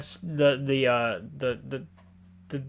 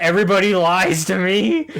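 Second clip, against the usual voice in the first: raised, higher-pitched mock outburst; mock yelling; 5 semitones higher, 5 dB louder than usual. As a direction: imitate a warden yelling in frustration. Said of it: "when he's yelling about everybody lying".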